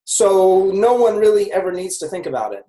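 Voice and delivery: whisper. Real, not acted. Aside to listener.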